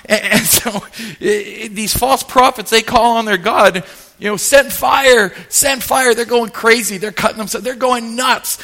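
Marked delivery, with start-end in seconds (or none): 4.4-6.1 higher-pitched retold plea; half-hearted frantic chant; mock frantic calling. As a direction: imitate desperate prophets calling out. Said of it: "calling and screaming".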